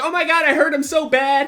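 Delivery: mock her panicking; freaked-out girlfriend.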